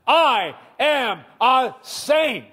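I am a saint chanted slowly and loudly; slow, loud group declaration. Real, not acted. Preacher and church say it together, slow and loud. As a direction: lead the congregation in unison, firmly. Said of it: "One, two, three".

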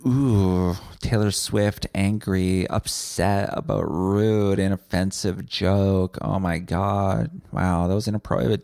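slow, drawn-out mock outrage; exaggerated slow pearl-clutching; mock shocked public. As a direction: imitate scandalized gossip, stretching the words. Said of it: "Everyone said, like".

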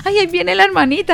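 a comic hushed warning that she's coming; mock dread at the nagging sister approaching; dreading her arrival. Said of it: "no quiere esconderse".

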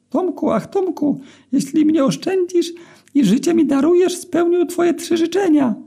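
very high, thin squeaky voice; a tiny magic eel pleading for its life; high-pitched pleading eel; squeaky talking eel. A narrator's reading.

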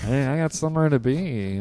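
joking, lightly put-on delivery; funny tone. Host voicing the line cutter, funny tone. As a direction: toss it off as a playful bit. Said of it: "like, a funny tone".

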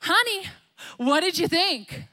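high, eager mock spouse voice; a spouse fishing for a compliment, high and sweet. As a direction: play the hopeful spouse asking for praise. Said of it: "your spouse comes over and is like".

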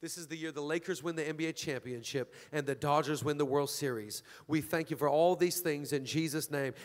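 low-pitched, even public prayer; closing prayer. Acted. Pastor closing a prayer with the congregation, low and steady.

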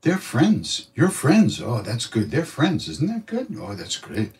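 high, sing-song delighted teacher; lightly voiced beaming guru; Maharaji's voice. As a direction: coo over the couple like a proud guru. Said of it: "Maharaji look at them and say".

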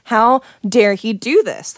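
retold indignation, stressed and drawn out; mildly worked-up, slow outrage; indignant. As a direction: replay being angry and at a loss. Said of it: "I'm so indignant and I'm so".

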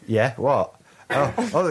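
mock-casual, acting natural; feigned nonchalance. Escaper caught by the guards at the tunnel, feigning nonchalance. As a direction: play innocent, as if nothing is going on. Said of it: "trying to act natural".

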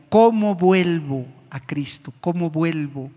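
slow, pleading lament; a touch of remembered anguish; retold weeping plea. Repentant man begging to return to Christ, mildly tearful. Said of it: "Yo lloraba amargamente".

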